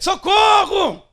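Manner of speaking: loud, high, drawn-out cry of socorro; full shout for help. Shown as a demonstration. Preacher showing the congregation a real cry, long loud shout. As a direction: yell it like you really mean it. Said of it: "seu socorro foi muito mequetrefe. Tem que ser".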